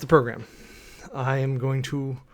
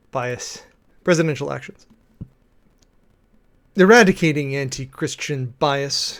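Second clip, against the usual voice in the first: a mildly dramatic read of an official order; lightly theatrical reading of an executive order. Shown as a demonstration. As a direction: read it out like a solemn proclamation. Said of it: "read aloud the whole of this executive order dramatically".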